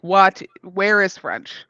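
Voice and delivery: loud, incredulous "what", then drawn out; excited. Acted. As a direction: blurt out an astonished question. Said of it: "he's gonna get very excited".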